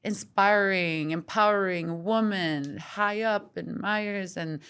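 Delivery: slow, drawn-out mock admiration; imitating people gushing over her success; gushing onlooker. Host mimics outsiders admiring her seemingly perfect life, slow mock gush. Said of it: "be like".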